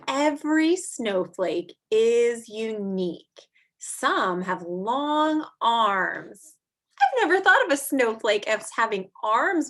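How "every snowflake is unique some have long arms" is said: slow, drawn-out read-aloud; reading to children. Acted. Teacher reading a snow book to kids, slow and clear. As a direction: read each line slowly to little listeners.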